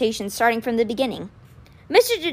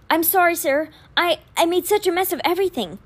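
put-on young man voice; 7 semitones higher than usual. Alex apologizing, distressed boy voice.

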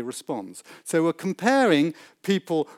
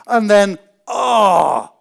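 mock yelp; 4 semitones higher, 8 dB louder, much slower than usual. Shower scene gets too hot.

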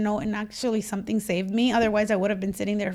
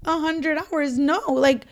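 1 exasperated plea; 2 semitones higher than usual. Retold or imitated. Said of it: "And I was looking at him like".

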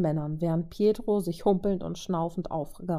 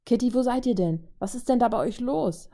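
a worried call crackling through the comms; over the radio; 5 semitones higher than usual. Acted. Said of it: "hallte plötzlich Clints Stimme über Funk".

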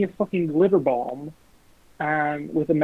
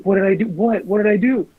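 mock panicked shout; 4 semitones higher, 4 dB louder than usual. Retold panicked reply to friend.

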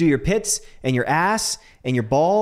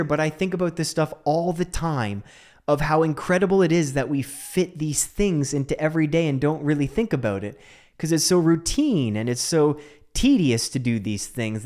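ordinary talk

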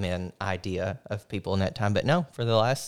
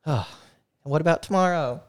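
higher, louder, mock whiny question; high mock asking voice; 7 semitones higher, 3 dB louder than usual. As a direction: play a weary family member asking. Acting Irish family asking about meals.

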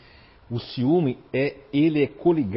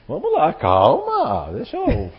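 laughing; 11 semitones higher, 3 dB louder, slower than usual. Retold or imitated. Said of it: "quando eu chegar tu vai até dizer".

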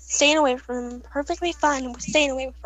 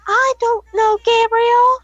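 high, loud scream at her brother; mock scream of I don't know; retold scream; 8 semitones higher, 7 dB louder, slower than usual. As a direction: scream it at him. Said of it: "So then I scream".

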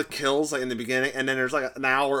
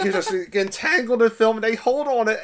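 laughing; 7 semitones higher, 4 dB louder than usual. Real, not acted. Laughing while retelling a scene.

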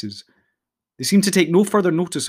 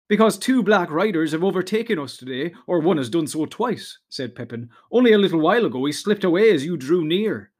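lightly voiced eager hobbit, pitched up; eager young hobbit Pippin; 4 semitones higher than usual. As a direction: explain it eagerly, a little excited.

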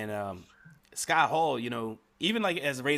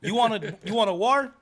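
loud, high, hammed-up Cuban-accented challenge; Razor Ramon Cuban accent; 9 semitones higher, 9 dB louder than usual. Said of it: "then he talk like that no more".

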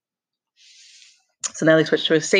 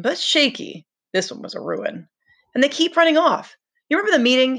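a lightly voiced frustrated boy, pitched higher; Ralph complaining; 3 semitones higher than usual. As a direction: complain with rising exasperation.

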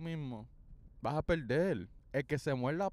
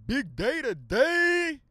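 slow, higher and louder; slow hype; 9 semitones higher, 6 dB louder, much slower than usual. Pretend. Announcing the return, a slow big hype line. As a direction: drag it out for drama. Hyping the episode.

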